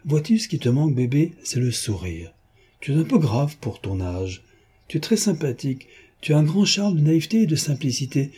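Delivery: lightly voiced mocking gentleman thief; a hint of a playful rogue gloating; lightly voiced jaunty Lupin; teasing Lupin.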